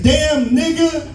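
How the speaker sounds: high, slow, laughing mock dad; a slow, high, hammed-up dad laughing at his son. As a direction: tease the kid's nose while cracking up. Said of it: "My dad says".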